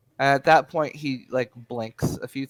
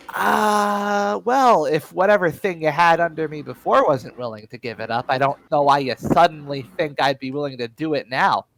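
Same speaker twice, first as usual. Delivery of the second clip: defiant prisoner; 3 semitones higher, 5 dB louder than usual. Acted. Prisoner Fleming answers interrogator.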